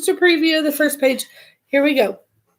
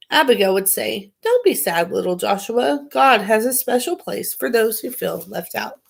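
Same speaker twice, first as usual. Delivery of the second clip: put-on reading a children's book aloud; story narration. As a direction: read it like a bedtime story.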